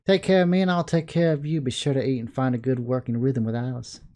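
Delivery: put-on Southern accent. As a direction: give it a Southern accent, lifted then settling. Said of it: "I do apologize if you hate my southern accent".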